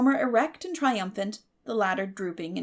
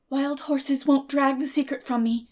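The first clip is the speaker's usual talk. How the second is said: higher, louder, grand vow; solemn promise; 5 semitones higher, 6 dB louder than usual. A narrator's reading. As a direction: swear it like a solemn oath. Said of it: "promised Anne solemnly".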